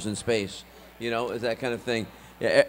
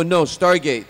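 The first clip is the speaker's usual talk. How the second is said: raised, insistent retort; loud correction; 5 semitones higher, 9 dB louder, much slower than usual. Retold or imitated. Son correcting dad on phone, loud insistence. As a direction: correct him firmly and loudly.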